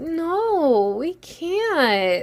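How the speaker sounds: high, whiny, swooping, with "no" stretched out. Imagining Kim refusing someone, whiny Kim voice. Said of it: "I can hear her whiny voice".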